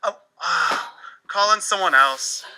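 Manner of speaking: whispered call in someone else; ashamed student whisper; embarrassed whisper. Acted. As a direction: give up and hide under your breath. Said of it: "allow me to demonstrate".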